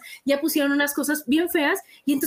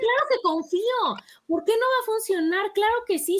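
confident affirmation; 6 semitones higher than usual. Pretend. To friends, saying yes to the supplement with faith, high laughing affirmation. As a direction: proclaim it with a laugh, totally sure. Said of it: "hay que decir".

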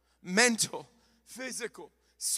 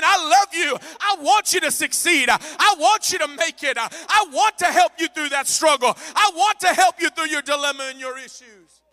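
loving God; 8 semitones higher, 14 dB louder than usual. Pretend. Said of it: "and he's saying".

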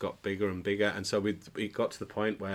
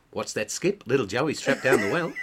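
Skippy joke voice; 5 semitones higher, 8 dB louder than usual. Retold or imitated. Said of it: "Did a little joke".

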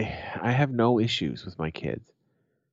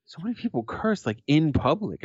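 higher-pitched girlfriend imitation; shocked girlfriend; 5 semitones higher than usual. Imitating girlfriend walking through his hometown, mildly shocked. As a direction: mimic a visitor taken aback, voice lifted. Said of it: "And she's like".

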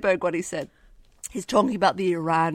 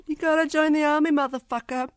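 Peter Berg impression; 8 semitones higher than usual. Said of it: "So that's Peter Berg".

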